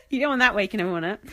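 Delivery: rushed words through a giggle fit; can't stop laughing, push it out fast. Real, not acted. Giggling at her own buzzing joke, words tumble out.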